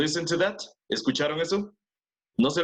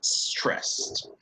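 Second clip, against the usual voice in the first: slow read-aloud. Shown as a demonstration. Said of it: "Listen and practice".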